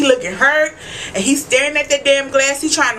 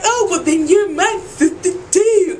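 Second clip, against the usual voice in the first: mock prissy vampire; 7 semitones higher than usual. Violet quoted, put-on voice.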